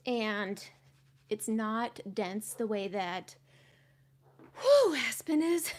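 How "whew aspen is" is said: laughing. Real, not acted. Laughing, catching breath mid-sentence.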